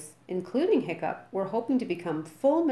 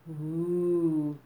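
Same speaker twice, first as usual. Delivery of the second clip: a drawn-out eager ooh; the boys thrilled at the thought; excited murmur; 3 dB louder than usual. A narrator's reading. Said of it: "murmured the boys excitedly".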